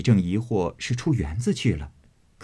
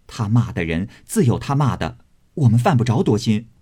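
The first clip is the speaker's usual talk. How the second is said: fast, louder rebuttal; quick indignant rebuttal; 3 semitones higher, 5 dB louder than usual. Acted. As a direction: rush to clear yourselves. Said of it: "忙道". (急切地辩白)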